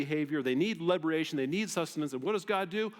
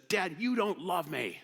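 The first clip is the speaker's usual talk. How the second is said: slow, higher mock pout of a teen girl; sassy daughter; 5 semitones higher, slower than usual. Daughter accusing her dad after losing phone, pouty. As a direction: sulk it like a wounded teenager. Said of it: "then she says".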